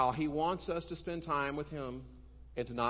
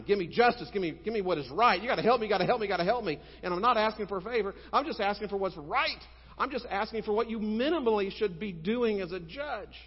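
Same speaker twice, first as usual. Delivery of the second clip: loud, high, insistent yelling; shouting at the judge; 7 semitones higher, 7 dB louder than usual. Acted. Widow outside the judge's window shouting for justice. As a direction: hammer him with it, full volume. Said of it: "just shouting at him".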